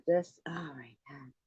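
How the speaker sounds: whisper. Real, not acted. Reminiscing aside.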